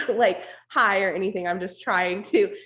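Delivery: strained hoarse voice with almost no voice; raspy whisper. Real, not acted. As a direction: push words out through a lost voice. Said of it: "with this no voice".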